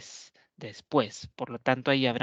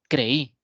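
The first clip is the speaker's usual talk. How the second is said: «creí» with the stress landing on the final I; acento en la I; 4 dB louder than usual. Shown as a demonstration. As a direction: hit the I of «creí», two syllables. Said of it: "la mayor fuerza de voz la tiene la vocal cerrada". («creí» con la fuerza de voz en la í)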